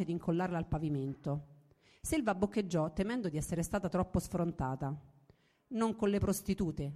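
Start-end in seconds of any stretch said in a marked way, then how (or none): 5.7-6.9 slow, cold put-down; icy rebuff. Acted. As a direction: freeze her out, slowly. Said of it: "la congelò".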